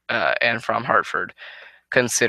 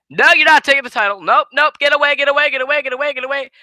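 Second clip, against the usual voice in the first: high, loud panicked chant of get away; frantic singsong yell; 13 semitones higher, 6 dB louder, faster than usual. Retold or imitated. Wrestler fleeing a chasing rival, high frantic singsong yell. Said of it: "make it into a tone like I just did".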